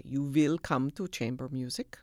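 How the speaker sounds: imitating a Viennese German accent. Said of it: "in her thick Viennese accent".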